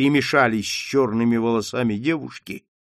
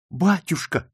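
crying out; 6 semitones higher than usual. Acted. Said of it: "вскричала Маргарита".

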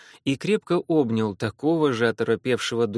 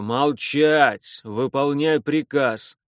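raised voice; 3 dB louder, much slower than usual. Acted. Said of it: "повысил голос Репнин".

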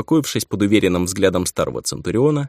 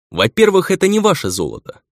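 cutting interruption; 10 semitones higher than usual. Acted. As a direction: cut him off sharply. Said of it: "перебил я распалившегося гнома".

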